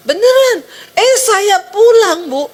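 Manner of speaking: high, loud amazed cry; high loud amazed outburst; surprised exclamation. Retold or imitated. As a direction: marvel at the door opening. Husband's surprised account, heightened.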